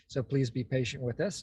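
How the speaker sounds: ordinary delivery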